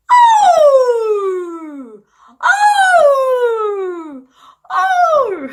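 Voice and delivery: loud high long howl; wolf howl. Shown as a demonstration. Teacher howling like a wolf for the children, loud and long. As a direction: throw your head back and howl like a wolf. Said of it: "이것도 좀 했는데".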